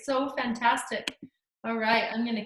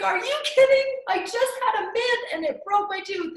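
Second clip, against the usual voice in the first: retold disbelief; 8 semitones higher, 3 dB louder than usual. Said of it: "I was like".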